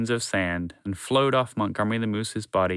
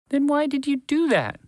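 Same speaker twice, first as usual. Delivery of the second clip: exasperated. A narrator's reading.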